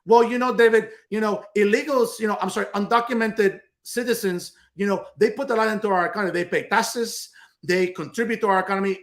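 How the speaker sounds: lightly voiced impersonation of a pundit; hint of a mocking impersonation; Patty Cash. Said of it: "do my best Patty Cash impersonation".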